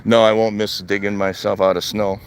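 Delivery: ordinary talk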